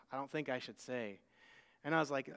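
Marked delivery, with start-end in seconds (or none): 0.1-1.2 put-on soft little girl voice.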